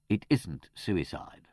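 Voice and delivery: slow, deliberate "It isn't suicide"; emphatic. A narrator's reading. Manservant informing his master, slow emphasis on "isn't suicide". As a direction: give "isn't suicide" measured weight. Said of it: "said with emphasis".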